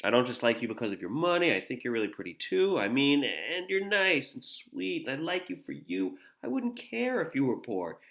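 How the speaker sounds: lightly acted sweet-talk, lingering on the compliments; charming. Danny trying to charm Jill with compliments, mildly charming. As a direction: read it as a gentle attempt to charm. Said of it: "He's really trying to charm her".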